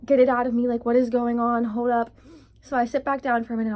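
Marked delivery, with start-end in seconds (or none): 0.0-2.1 loud, mildly panicked outburst; mock alarmed exclaiming; retold panic. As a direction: replay a freak-out with raised volume. Acted panic, jumping up from chair.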